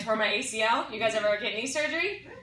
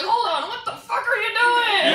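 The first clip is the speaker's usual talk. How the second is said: higher, louder, slower what the fuck; high alarmed yell; 9 semitones higher, 5 dB louder, slower than usual. Retold or imitated. Boyfriend catching her fast-forwarding, high alarmed yell. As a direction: yell in alarm at your partner. Partner startled in bed.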